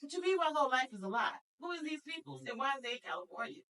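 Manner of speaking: high, incredulous mock-indignant rant; mock outrage. Teen girl protesting the news, in high mock outrage. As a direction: play up the teen's outrage at being adopted. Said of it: "but also mad".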